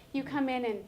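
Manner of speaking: hushed, calming reassurance; soothing whisper. Shown as a demonstration. Teacher to an upset child coming in, soothing whisper. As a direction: drop into a soft whisper to make them feel safe.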